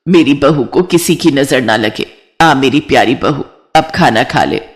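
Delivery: low, affectionate motherly voice; doting mother-in-law. Acted. (लाड़ करती सास की नीची आवाज़)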